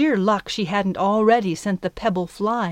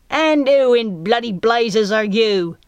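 menacing pirate voice, louder and slow; sinister pirate; 2 semitones higher, 5 dB louder than usual. Acted. Pirate lookout catches Midge by the cage, sinister and slow. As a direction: growl at the intruder like a pirate. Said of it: "A nasal, sinister voice".

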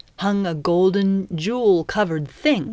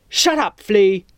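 snapped; 3 semitones higher, 6 dB louder than usual. A narrator's reading. Pirate captain silences his first mate, snapped. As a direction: cut your underling off sharply. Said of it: "the captain snapped".

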